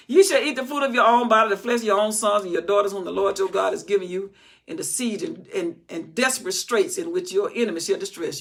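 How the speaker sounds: loud preached scripture reading; preaching scripture. Acted. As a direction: proclaim the verse with force.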